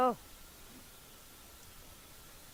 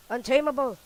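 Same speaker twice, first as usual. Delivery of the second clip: excited yell; 6 semitones higher, 12 dB louder than usual. Real, not acted. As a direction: shout it again, slightly less. Cheering in game fight.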